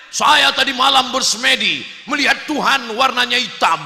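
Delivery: mimicking a boastful announcement; mock proclamation. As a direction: blare it out like a big announcement. Mimics artist's internet announcement.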